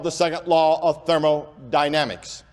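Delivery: "thermodynamics" split carefully into thermo and dynamics; careful slow enunciation. Real, not acted. Preacher with a speech impediment naming a science law, carefully slow. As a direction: say "thermodynamics" deliberately, part by part. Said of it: "I'm trying to say that slow now".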